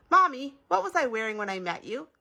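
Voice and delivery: put-on high-pitched little boy's question; childlike, lifted questioning; curious child. A narrator's reading. Child asks mother a question.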